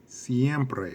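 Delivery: siempre said clearly in Spanish; teacher modelling siempre; Spanish word. Shown as a demonstration. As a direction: say siempre as see-EM-preh, slow and clear. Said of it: "what does siempre mean".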